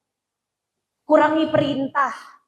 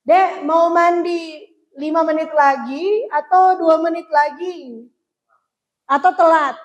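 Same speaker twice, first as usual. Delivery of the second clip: offering a choice; 3 semitones higher, 4 dB louder, slower than usual. Shown as a demonstration. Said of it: "Tapi coba trik ini".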